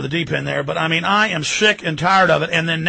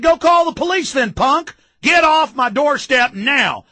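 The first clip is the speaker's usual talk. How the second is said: retold angry retort; 7 semitones higher, slower than usual. Retold confrontation with census taker.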